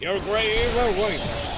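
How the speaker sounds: slow, drawn-out spooky echo; skeleton voice. Retold or imitated. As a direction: mimic the skeleton's moan slowly. Echoing the skeleton's line.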